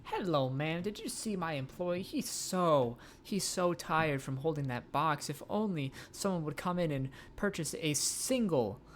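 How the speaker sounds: high, bright sales pitch voice; salesperson voice. Acted. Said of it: "time for cold calls".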